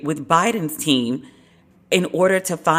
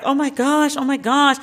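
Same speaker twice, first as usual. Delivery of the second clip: mock excited; 8 semitones higher than usual. Crowd reacting to three-pointer.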